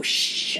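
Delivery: a sharp unvoiced shh; shushing. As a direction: hush someone quickly. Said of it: "I had to shush him".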